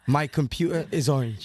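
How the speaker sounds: slow, low attempt at a British accent; careful imitation of a British accent; imitated British accent. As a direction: repeat it slowly in a put-on British accent. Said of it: "I can repeat it, like the sound".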